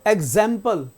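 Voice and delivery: एग्जाम्पल with the middle held; एग्जाम्पल, long second vowel; drawn-out vowel. Shown as a demonstration. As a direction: stretch the 'zam' in एग्जाम्पल. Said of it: "थोड़ा खींचते हैं".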